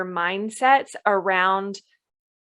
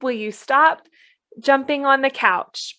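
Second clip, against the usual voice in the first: 1 sugary pleading; 5 semitones higher than usual. Retold or imitated. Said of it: "put it in a prettier package and attach a little bow".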